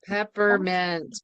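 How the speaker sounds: slow stretched-out call; bingo caller. Acted. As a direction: draw out the word for the hall. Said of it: "Okay, next call".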